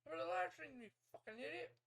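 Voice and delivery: high, loud retold scolding; imitating an exasperated sister; mock scolding.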